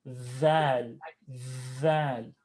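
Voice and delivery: dhal with a z-like buzz. Shown as a demonstration. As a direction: say "Dhal" buzzing, tongue out. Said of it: "a little bit of a z, kind of a buzz".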